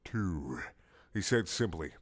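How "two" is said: hint of warning. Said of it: "he said simply, and with a hint of warning".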